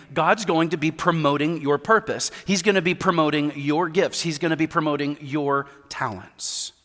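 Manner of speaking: ordinary talk, nothing marked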